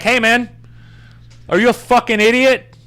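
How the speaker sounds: a sneering mock challenge, high; mock confrontation. Scene: imagined heckling of a masked driver, jeering high. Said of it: "I'm not gonna be like".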